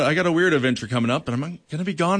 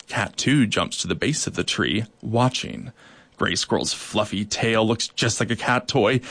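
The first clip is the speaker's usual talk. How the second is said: storytelling. A narrator's reading. Story narration read aloud.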